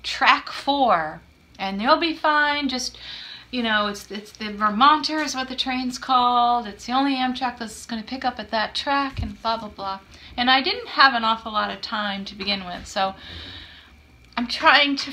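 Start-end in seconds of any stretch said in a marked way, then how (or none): 0.0-9.2 helpful station worker. Retold or imitated. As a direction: chirp the directions like a busy clerk. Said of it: "what did she say".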